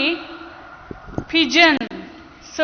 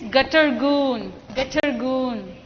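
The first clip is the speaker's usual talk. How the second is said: pigeon coo. Shown as a demonstration. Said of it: "Repeat after me".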